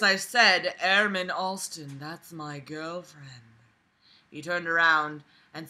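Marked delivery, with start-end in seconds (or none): 0.8-3.4 slow, much softer, steady warning; calm voice. Retold or imitated. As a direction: keep it low-key and controlled. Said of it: "In a calm voice".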